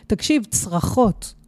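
"צרחות" said slowly and weighted after "תקשיב"; slow emphasis. Real, not acted. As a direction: drag out "תקשיב, צרחות" to drive it home. ("צרחות" לאט ובהדגשה)

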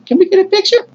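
starstruck, disbelieving squeak; incredulous echo. Retold or imitated. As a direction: voice climbing very high in disbelief. Fan echoes hero's request in disbelief.

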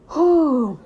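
big whew, high then falling; acted-out whew; loud exhaled whew. Her reaction to friend's insistence.

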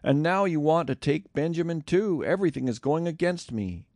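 high-pitched grieving cry, lightly acted; a father pleading as his sons slip away; anguished exclamation. A narrator's reading. Old father crying out to his sons, anguished. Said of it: "Jacob exclaimed".

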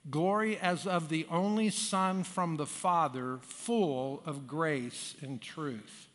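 congregation reading scripture together; slow unison reading aloud; many voices in unison. Acted. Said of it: "Let's read it aloud together".

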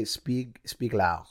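"Spieglau" sounded out slowly, broken after "Spieg"; demonstrated pronunciation. Shown as a demonstration. One-year German student shows co-host, "Spieglau" said deliberately. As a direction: give "Spieglau" as a careful German name. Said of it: "That's how you say it".

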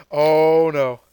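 Frieza bluffing. Retold or imitated. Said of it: "Frieza somehow forgets about this".

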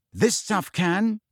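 slow, heavy warning; grim. Acted. Hermione warns Ron off the potion, slow and grim. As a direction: lay it down darkly. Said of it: "said Hermione grimly".

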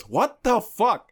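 high, loud, drawn-out retold outcry; imitating bafflement. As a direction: stretch it out in mock disbelief. Retold girl's baffled reaction.

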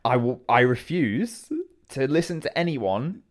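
hammed-up stubborn declaration; firm refusal. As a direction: draw it out, putting your foot down. Pooh firmly refuses in the story.

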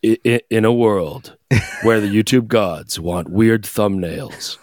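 deep, slow mock-seductive voice; low sexy voice. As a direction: drop low and slow for a sultry narrator. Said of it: "talking low and that's how you think you sound".

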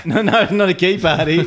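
laughing sheepishly through the words; caught-out giggle while denying; guilty laugh. Real, not acted. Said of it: "that's a guilty laugh".

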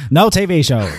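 gruff demanding editor voice; angry boss. Pretend. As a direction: bark orders like a hammy newspaper boss. Boss voice continues.

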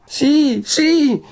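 very high, panicked yes; precipitate assent. A narrator's reading. Lucia gives in to Renzo, hasty and frantic. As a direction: blurt agreement in alarm. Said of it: "rispose precipitosamente Lucia".

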